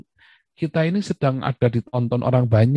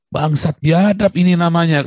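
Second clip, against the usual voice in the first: mild, drawn-out mock curse, raised pitch; mock group cursing; 5 semitones higher than usual. Speaker demonstrates cursing a group, mild mock cursing. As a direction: curse a whole group, slowly and without real anger. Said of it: "maki-maki satu kelompok gitu kan".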